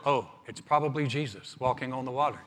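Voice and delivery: casual, low-key mock realization; mock unconcern. Preacher imagining disciples calmly spotting Jesus, mock casual. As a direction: act out an untroubled, matter-of-fact guess. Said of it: "they didn't look at one another and go".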